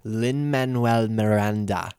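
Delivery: slow, deliberate Lin-Manuel Miranda; careful corrected pronunciation. Shown as a demonstration. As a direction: say Miranda slowly, ending in an "ah". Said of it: "That's how you say it".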